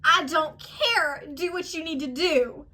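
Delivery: slow sarcastic go-ahead; exasperated retort. Retold or imitated. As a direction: drag it out, fed up. Retorting to the TSA agent.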